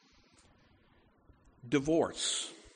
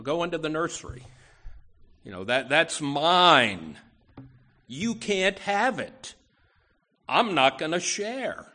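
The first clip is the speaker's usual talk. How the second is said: lightly voiced whiny toddler, louder on mine; a preacher mock-playing a grabby child, a bit louder; selfish toddler; 4 dB louder than usual. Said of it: "Like selfish toddlers".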